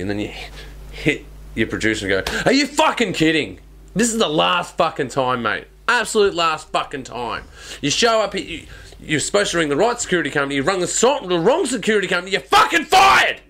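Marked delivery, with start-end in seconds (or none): 2.4-13.4 high-pitched tirade building to a shouted firing; put-on outrage, voice climbing high; mock furious yelling. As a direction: rant at your producer, climbing to a shout. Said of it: "start yelling at the producer".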